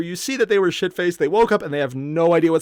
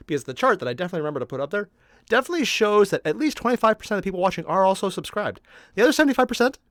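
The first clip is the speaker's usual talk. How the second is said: too much caffeine; 3 semitones higher, faster than usual. Real, not acted. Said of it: "maybe I'm a little hyper on caffeine today".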